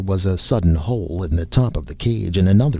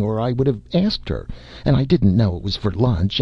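put-on boy's voice pitched higher, babbling in fear; terrified pleading; 4 semitones higher than usual. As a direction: plead breathlessly, a scared boy caught out. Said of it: "speaking on the sheer momentum of terror".

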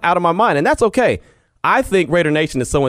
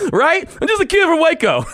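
much higher, words riding on real laughter; laughing through it. Real, not acted. Host repeating his boss's jab at himself, laughing. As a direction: say it while cracking up.

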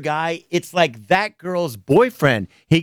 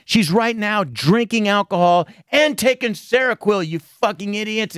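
raised, indignant tirade at his online viewers; angry rant; 6 semitones higher than usual. Retold or imitated. A comedian imitates a singer yelling at his viewers, angry rant.

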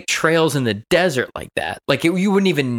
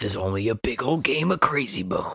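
put-on old sci-fi announcer; 6 semitones lower, 4 dB quieter than usual. Repeats mock trailer bit.

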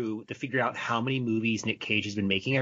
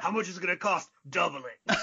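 excited producer; 7 semitones higher than usual. Pretend. Acting eager studio boss.

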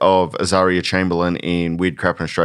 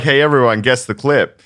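bright, higher, louder host call-out; mock quiz host; 4 semitones higher, 3 dB louder than usual. Pretending to launch a guess-the-clip game, mock quiz host. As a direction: hype up the audience like a quiz show. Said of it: "I was gonna play a clip and be like".

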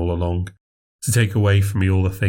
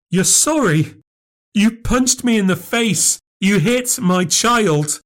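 high, raised accusing voice; angry sister; 13 semitones higher, 3 dB louder, slower than usual. Acted. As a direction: throw it back at her, outraged.

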